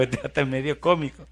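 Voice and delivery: chuckling through the words; laughing. Retold or imitated. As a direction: say it with an amused laugh. Se ríe al decirlo. (riéndose del visitante)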